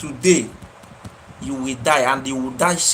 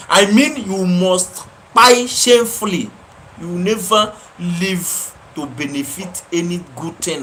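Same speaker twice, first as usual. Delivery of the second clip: raised voice, damning him; angry curse; 3 semitones higher, 4 dB louder than usual. Real, not acted. Cursing John in anger.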